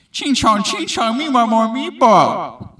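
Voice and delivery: high, loud, slow mock Asian accent; coworker's crude mock Asian accent, high and loud; mocking stereotyped Asian accent. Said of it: "not appropriate accent".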